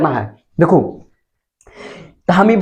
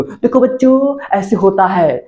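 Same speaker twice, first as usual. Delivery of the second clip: mock teacher addressing class; 2 semitones higher than usual. Acting teacher starting class in silly outfit. (बच्चों को पुकारते master की ऊँची नकली आवाज़)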